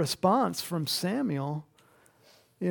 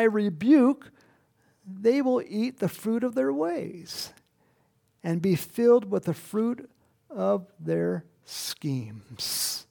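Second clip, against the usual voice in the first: scripture reading; 3 dB louder than usual. Acted. Preacher reading scripture to the congregation, weighty. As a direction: read it out like a preacher.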